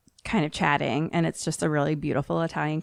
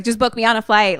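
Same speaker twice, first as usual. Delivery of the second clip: higher, louder acted phone request; frantic phone caller; 5 semitones higher, 5 dB louder, faster than usual. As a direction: imitate someone urgently booking by phone. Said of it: "He's like".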